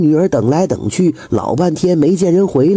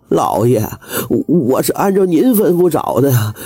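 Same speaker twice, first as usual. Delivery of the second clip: aggrieved whine. Acted. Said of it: "管家委屈地说".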